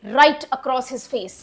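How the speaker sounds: right said slow, with the weight on right; stress on right. Shown as a demonstration. Teacher stresses right across his face, slowly. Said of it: "ये जो राइट है ना".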